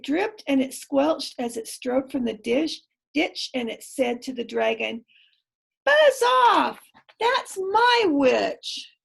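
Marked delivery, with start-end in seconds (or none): 5.8-9.0 loud, slow, roaring beast; monster roar. A narrator's reading. Beast roaring at the dragon to leave. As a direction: bellow it like a huge monster.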